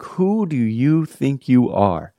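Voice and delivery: slow, indignant mock retort, rising up; retold indignation. Boyfriend indignant at girlfriend's question, slow mock anger. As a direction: drag it out like an offended pastor. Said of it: "I was so mad".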